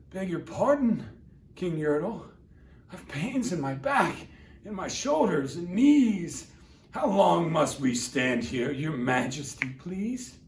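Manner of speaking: lightly voiced, polite little turtle asking; humble plea. Mac at the bottom, gently pleading with the king. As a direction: ask meekly, not wanting trouble. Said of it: "looked up and he said".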